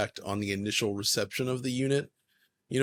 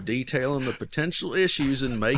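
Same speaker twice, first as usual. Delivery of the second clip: put-on Southern reading voice; Southern accent; 3 semitones higher, 4 dB louder than usual. Reading the listener's question on request, mock Southern accent. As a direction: read it aloud in a playful Southern accent. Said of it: "You want me to read it like that".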